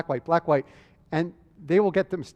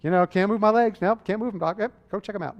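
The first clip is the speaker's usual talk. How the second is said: casual, higher-pitched mock nonchalance; indifferent patient; 5 semitones higher than usual. Paralyzed patient answering the doctor's questions, acted indifferent. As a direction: shrug it off as an unbothered patient. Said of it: "they're basically surprisingly indifferent to this".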